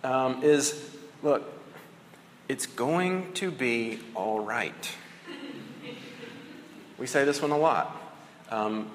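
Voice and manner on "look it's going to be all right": reassuring. Retold or imitated. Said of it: "one that I've noticed that we say a lot".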